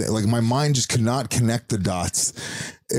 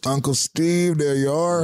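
a hint of wrestler; 4 semitones higher, slower than usual. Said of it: "impression of Stone Cold Steve Austin".

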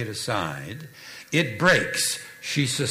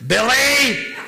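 high, loud name called out through real laughter; bursting into laughter on the name; laughing shout; 10 semitones higher, 9 dB louder than usual. Real, not acted. Punchline of mom story, laughing.

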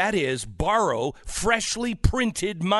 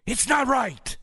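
emphatic, raised-pitch tirade; yelling; 5 semitones higher than usual. Real, not acted. Host telling listeners no socialist program will save them, yelling. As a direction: hammer each point home in a real rant. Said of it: "I'm yelling at everyone else".

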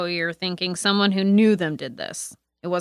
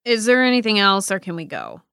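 agitated demand; 3 semitones higher, 7 dB louder than usual. Acted. Player character pressing the detective to let her leave, loud and impatient.

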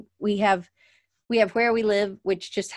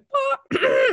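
throat clear; 4 dB louder than usual. Retold or imitated. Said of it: "and he cleared his throat".

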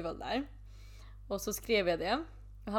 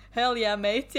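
put-on Australian accent; 5 dB louder, slower than usual. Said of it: "do you have an Australian accent".

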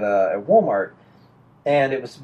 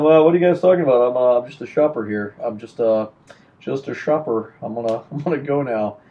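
feigned innocence; 3 semitones lower than usual. Retold or imitated. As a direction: play the innocent shopper, trailing lower. Plays innocent shopper to his accusers.

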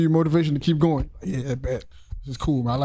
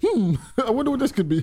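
laughing mock curiosity; 5 semitones higher than usual. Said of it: "You like, hmm, let me".

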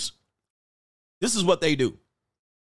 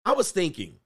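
sly opener; 4 semitones higher than usual. Retold or imitated. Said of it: "they'll be sitting there like this".

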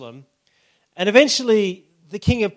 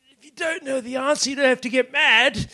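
lion voice; 8 semitones higher, 3 dB louder than usual. Acted. Beaten lion's punchline.

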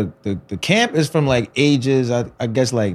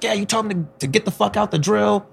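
mock complaining parent; 8 semitones higher than usual.

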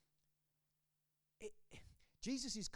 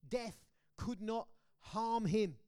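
louder, slow proclamation; declaring; 3 semitones higher, 6 dB louder, slower than usual. Real, not acted. Preacher declaring victory to the congregation, loud and slow. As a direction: proclaim each word slowly.

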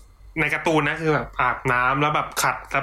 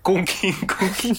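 wind-chime imitation; 4 semitones higher than usual. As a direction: imitate chimes swaying lazily, laughter creeping in. Mimicking wind chimes all day.

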